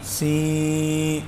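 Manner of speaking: سی pushed through the nose; nasal see. Shown as a demonstration. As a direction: let سی go into the nose, the wrong way. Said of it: "آواز ناک میں جا رہی ہے".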